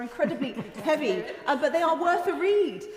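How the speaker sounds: chuckling through the words; laughing. Real, not acted. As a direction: laugh it out, amused. Joke about heavy estimates.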